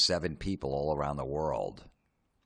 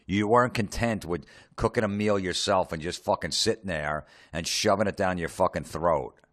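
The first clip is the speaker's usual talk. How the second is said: ordinary talk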